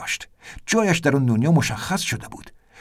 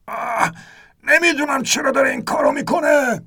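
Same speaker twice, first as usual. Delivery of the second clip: much higher, near-crying shout; crying out in fear; 11 semitones higher than usual. A narrator's reading. Ernest crying out in despair as the boat dives. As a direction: wail it as the boat plunges. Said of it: "فریاد زد".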